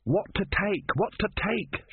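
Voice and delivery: high-pitched flustered call; shouted. A narrator's reading. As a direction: call it out high, hurriedly deciding. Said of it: "shouted Ern".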